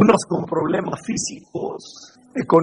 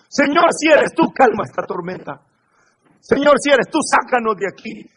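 panicked plea; 5 semitones higher than usual. Pretend. A fearful believer begs God to end the storm, frantic. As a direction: beg to be rescued, half-panicking. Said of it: "Pedro no le dijo".

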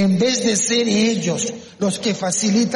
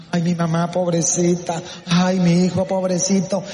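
mock pitying whine; playing the victim; 2 semitones lower than usual. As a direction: imitate someone fishing for sympathy. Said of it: "le encanta hacerse la víctima". (lástima fingida)

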